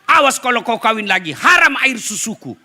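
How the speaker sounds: stern mother. Retold or imitated. Mother-in-law defends daughter-in-law.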